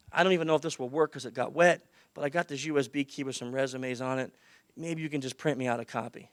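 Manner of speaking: softly imitating a hesitant, stressed applicant. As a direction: make a timid, quiet request. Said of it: "And I lowered my voice".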